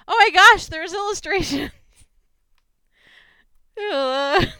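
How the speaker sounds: high, loud excited exclamation; overjoyed shout at the illustrations; thrilled. Real, not acted. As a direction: burst out in delight.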